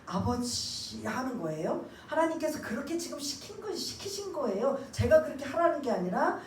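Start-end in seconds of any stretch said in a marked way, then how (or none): 0.0-1.0 slow, drawn-out earnest call to Father; sincere prayerful plea; heartfelt call. Shown as a demonstration. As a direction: pour your heart into the word. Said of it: "정말 내 마음과 감정을 담아서".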